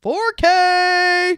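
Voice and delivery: high, loud announcer reveal; hammed-up excited four K reveal; mock hype. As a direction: blast it like a big reveal. Hyping Blu-ray reveal.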